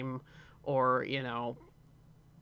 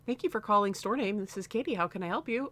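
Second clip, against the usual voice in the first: lightly raised polite phone greeting; a hint of the cheerful store voice; customer service voice; 5 semitones higher than usual. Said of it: "she was like".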